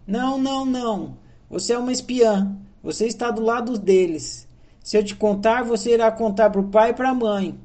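put-on ten-year-old boy refusing to confide in his sister; upset refusal. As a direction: push the sister away, suspicious and angry.

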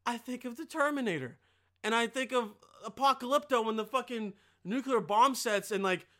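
ordinary talk

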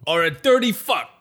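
a wiseguy laying out a for-real fact; Italian gangster character. Acted. Gangster lecturing his host about cockroaches in Italian accent.

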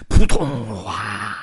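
voiced splash then a wailing 哇; thud and wail. A narrator's reading. Narrator acts the pig falling off his nose, plop and wail. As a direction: act out the tumble with a cry. Acting out pig's tumble.

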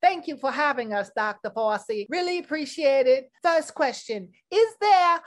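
sweet, breathy news interviewer; news reporter voice. Acted. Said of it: "Miss Trudy Tirade".

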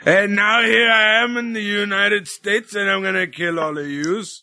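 badly faked Yorkshire threat, fading off at the end; terrible Yorkshire accent. Cohost mocking a wrestler from Yorkshire, hammed-up Yorkshire accent. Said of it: "Sorry for the terrible Yorkshire, uh, accent".

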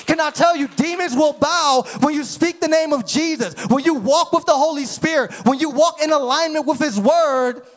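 emphatic, driving sermon voice; impassioned preaching. Real, not acted. Preacher telling congregation that demons will bow, impassioned preaching. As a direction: build the phrases like a preacher rousing believers.

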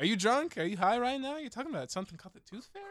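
high, loud shocked parent voice; scolding mother. Acted. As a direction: play a shocked, scolding mom. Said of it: "Why are you becoming, like, a, a mother?".

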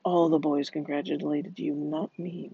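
intoning. A narrator's reading. Madge answering her sleepy husband, intoning. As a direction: intone it low, as a measured recital. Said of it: "Madge intoned".

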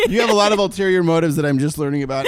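fast, laughing through the words. Real, not acted. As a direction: giggle while teasing. Laughing while teasing.

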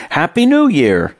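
a narrator's touch of Scottish for the manager's greeting; Scottish accent. Retold or imitated. Manager Kevin greets the narrator at his desk, in a light Scottish accent. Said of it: "Kevin said in his Scottish accent".

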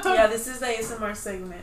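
laughing. Real, not acted. Joins the joke, laughing.

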